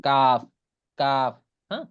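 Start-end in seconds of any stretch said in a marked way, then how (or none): 0.0-0.4 কাফ firm and louder; Arabic kaf demo. Shown as a demonstration. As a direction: hit কাফ crisply. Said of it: "লাগাইয়া কাফ উচ্চারণ হবে".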